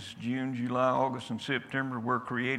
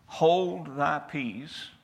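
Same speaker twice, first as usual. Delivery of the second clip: very slow, calm command; simple command; 3 semitones higher, 4 dB louder, much slower than usual. Acted. Jesus calmly telling the demon to leave, slow and simple. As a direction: say it simply, no force. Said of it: "simply says".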